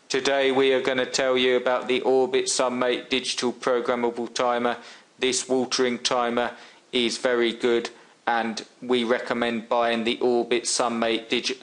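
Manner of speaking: silly flat robot voice; lightly voiced robot. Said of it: "I'm doing a silly robot voice there".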